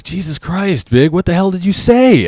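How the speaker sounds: high, loud panicked yell from the wife; wife panicking at what her husband said, high, loud yell; freaked-out wife. Retold or imitated. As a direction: cry out in alarm like a scared wife. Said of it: "my wife is freaking out".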